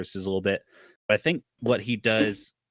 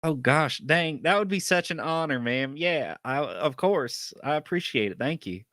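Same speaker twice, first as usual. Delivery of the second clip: put-on bashful farm boy; 5 semitones higher, 5 dB louder than usual. Gus bashful, leaving.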